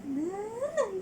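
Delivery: put-on coaxing baby talk. Shown as a demonstration. Mother teaching baby to say Nanay, sing-song. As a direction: coax the baby to copy Nanay. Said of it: "Sabihin mo, "Nanay".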